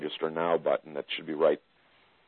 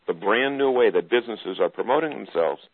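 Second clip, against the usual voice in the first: announcer voice; 3 semitones higher than usual. Shown as a demonstration. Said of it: "I gotta put my announced voice on".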